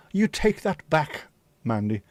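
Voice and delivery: slow, high, hammed-up indignation; mock offended. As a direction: pretend to be wounded by the remark. Mock offence at chat comment.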